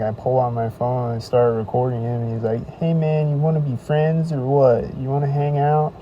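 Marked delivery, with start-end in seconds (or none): 2.8-5.9 louder, higher, fake-friendly; lightly voiced creepy buddy; mock friendly creep. Stranger asks to hang out while being filmed, fake friendly. Stranger tries to befriend him.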